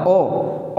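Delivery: ओ as a pure opening vowel, no H; teacher sounding out ओ alone; isolated O sound. Shown as a demonstration. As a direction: demonstrate the sound ओ by itself. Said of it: "ओ अदा होगा".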